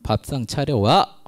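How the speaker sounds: slow, lightly mocked demand; patriarchal husband. Imitating a domineering husband ordering the wife, slow. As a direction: drawl it like an old-style husband. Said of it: "막 가부장적".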